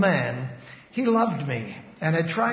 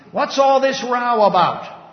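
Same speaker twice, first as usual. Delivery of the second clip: loud, high, slow bellow; bellowing overseer; 6 semitones higher, 9 dB louder than usual. A narrator's reading. Overseer breaking up the factory noise, bellowing. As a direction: roar it out like an angry boss. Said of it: "with a voice that sounded like he had had his breakfast that morning on rasps and files".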